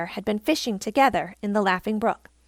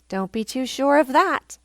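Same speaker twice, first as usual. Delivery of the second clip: snapped; 3 semitones higher than usual. Acted. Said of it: "he snapped".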